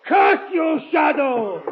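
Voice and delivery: furious shout. Acted. The unmasked killer's outburst.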